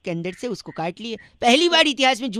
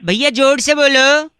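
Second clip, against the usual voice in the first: loud, high yell; shouting; 3 semitones higher, 9 dB louder than usual. Acted. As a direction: yell it down the line. Caller yells at the victim.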